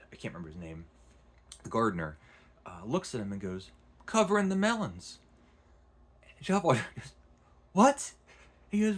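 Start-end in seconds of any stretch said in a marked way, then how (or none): 4.0-5.2 high, loud mock-simple gardener; comic gardener. Gardener answers matter-of-factly. 7.7-8.1 very high, loud incredulous what; baffled what. Retold or imitated. Valjean baffled by the answer.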